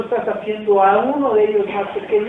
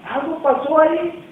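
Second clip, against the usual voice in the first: high, loud amazement; excited marvel; 10 semitones higher, 6 dB louder than usual. Real, not acted. Preacher marveling that something happened, high loud wonder.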